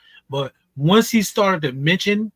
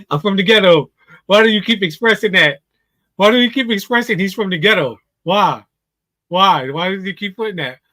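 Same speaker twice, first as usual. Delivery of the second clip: loud, incredulous why after why; exasperated disbelief; 2 semitones higher, 5 dB louder than usual. Real, not acted. Commentator baffled by the dater's boast, exasperated. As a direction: keep asking why, louder and pitched up. Incredulous rant about the ghetto line.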